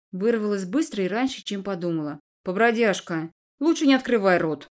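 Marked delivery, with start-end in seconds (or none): 2.4-4.7 louder spiteful warning; angry advice. Acted. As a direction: snap a nasty warning at her. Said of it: "зло посоветовал он".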